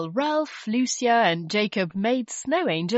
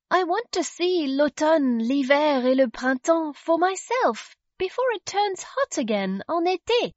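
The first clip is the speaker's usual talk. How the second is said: put-on young girl voice; 6 semitones higher than usual. Tilly's voice in a children's story.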